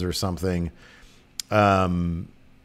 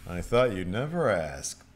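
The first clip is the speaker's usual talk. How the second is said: put-on eager old admiral; 4 semitones lower, 7 dB quieter than usual. Admiral gladly takes the helm.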